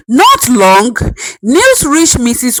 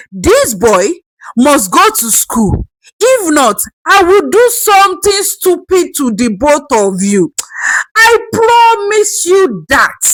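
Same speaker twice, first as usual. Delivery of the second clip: shaking voice; 4 semitones higher than usual. Acted. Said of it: "voice was shaking now".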